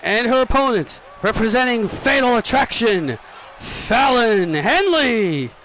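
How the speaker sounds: measured introduction, slow drawn-out name; ring announcer. Pretend. Announcer introduces the opponent Fallon Henley, ring announcer.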